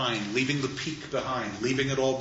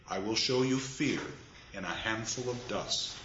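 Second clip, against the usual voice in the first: solemn verse, dropping softer toward the end; poem reading, fading; 3 dB quieter than usual. Acted. Lecturer reading verse, sinking softer at the close. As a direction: let it fade down to dust.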